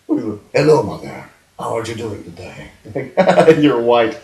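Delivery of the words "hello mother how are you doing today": lightly put-on Spanish accent; Antonio Banderas. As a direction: play a child with a mock Spanish accent. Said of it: "sound like Antonio Banderas".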